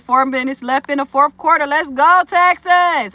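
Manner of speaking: reading chat. Retold or imitated. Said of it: "Judge Dredd says".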